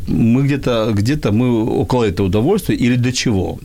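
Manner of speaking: ordinary talk, nothing marked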